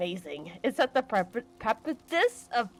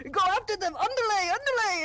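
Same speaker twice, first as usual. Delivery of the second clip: high urgent shouting; frantic yelling; 11 semitones higher than usual. Retold or imitated. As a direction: urge the horse on in a panic. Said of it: "He's like".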